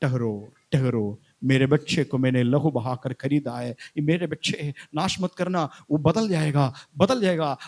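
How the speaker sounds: low, measured plea to hold off; Jesus interceding. Acted. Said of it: "तुरंत यीशु हाथ दिखा रहे".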